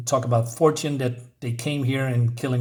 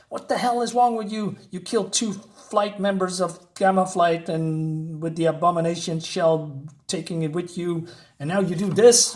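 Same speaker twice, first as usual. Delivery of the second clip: high, raised read of an angry doctor; mock yelling; 4 semitones higher than usual. Reviewer reads out the doctor scolding Fortune, a mild mock yell. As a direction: lightly voice the doctor yelling at him. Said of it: "the Doctor here is yelling at Fortune".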